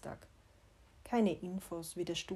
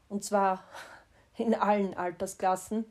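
laughing; 6 dB louder than usual. Real, not acted. Rueful joke about kids.

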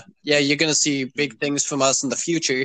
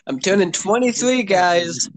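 laughing; 5 semitones higher than usual. Real, not acted. Laughing about his birthday.

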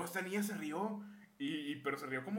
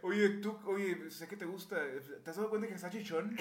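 bully taunt; 4 semitones higher than usual. Retold or imitated. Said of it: "bully's taunt retold".

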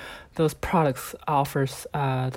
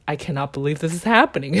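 amused disbelief; faster than usual. Retold or imitated. Finding it more funny than angry, quick amused disbelief. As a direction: say it quickly, giggle right after. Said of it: "I just found it more funny than, than angry".

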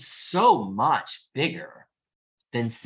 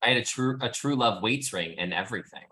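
repeated clearly. Real, not acted. Guest repeats her ring story when the host asks. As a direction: say it again so the host catches it. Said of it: "can you say that again?".

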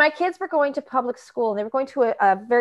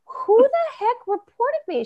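higher and slower, mock outrage; indignant demand; 11 semitones higher, slower than usual. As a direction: demand to know, half-hearted fury. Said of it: "I'm like".

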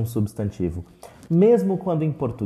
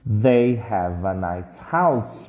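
slow model phrase; 4 semitones lower, slower than usual. Shown as a demonstration. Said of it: "Eles têm uma casa legal".

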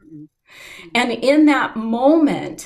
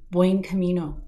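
a faint greeting from somewhere behind; soft, far off; 2 semitones lower than usual. Retold or imitated. A stranger greets the pilgrim from far behind, soft. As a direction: keep it soft, as if heard from a distance. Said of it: "it was kind of soft in the distance".

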